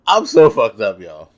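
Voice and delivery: laughing at how wrecked he was. Real, not acted. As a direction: laugh through the words. Laughing at his own misery.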